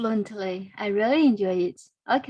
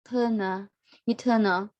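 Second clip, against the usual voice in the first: "eternal, eternal" repeated with the stress on "ter"; stress on second syllable. Shown as a demonstration. Teacher repeating "eternal" for students, stress on "ter". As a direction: drill "eternal" with "ter" strong. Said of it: "So the stress is on the second syllable".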